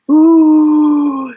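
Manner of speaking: a high, loud, delighted ooh; thrilled ooh. Real, not acted. Coach relishing the feeling of the embodied ask, thrilled.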